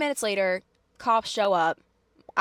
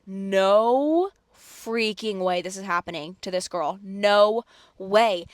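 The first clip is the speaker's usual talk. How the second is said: retold outrage; 4 dB louder, slower than usual. Outraged reaction to overheard yelling.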